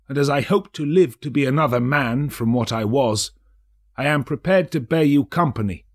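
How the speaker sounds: put-on old man begging a silent spirit to speak; a hint of trembling old Scrooge; Scrooge, pleading.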